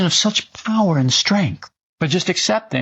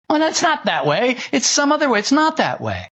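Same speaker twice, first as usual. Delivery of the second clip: indignant denial; 9 semitones higher than usual. Retold or imitated. Lying eyes denying reality.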